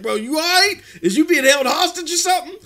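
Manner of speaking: high, startled retold question; mock alarm. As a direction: play it up like you're alarmed for him. Retold shock at brother's odd call.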